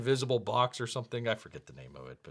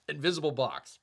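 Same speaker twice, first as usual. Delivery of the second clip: playful hushed whisper. Pretend. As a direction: whisper it for the mime joke. Joke about a mime, whispered.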